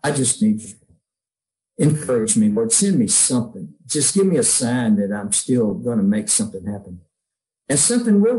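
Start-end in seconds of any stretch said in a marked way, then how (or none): 0.0-7.0 quiet prayer. Retold or imitated.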